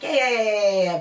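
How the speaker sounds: loud, rapid run of yeahs; acted hurrying someone along; impatient brush-off. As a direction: cut in dismissively, starting high. Brushing off the options explained.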